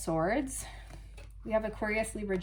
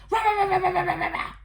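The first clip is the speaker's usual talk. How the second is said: much higher, loud gibberish shouting; mock rage; 10 semitones higher, 7 dB louder, faster than usual. The prim person raging in private, shouting. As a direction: rant like a madman. Rage behind closed doors.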